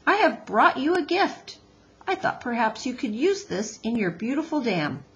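polite robot offering a gift, lifted pitch; careful, courteous robot voice; Roz the robot. Acted.

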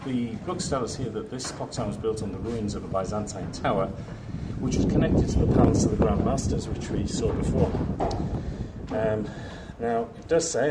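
winded after climbing stairs; breathing hard between phrases. Real, not acted. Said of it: "I'm sorry I'm out of breath".

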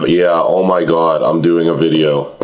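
hoarse, nearly gone voice. Real, not acted. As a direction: speak through a worn-out, hoarse throat. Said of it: "as you can hear, I have, like, no voice".

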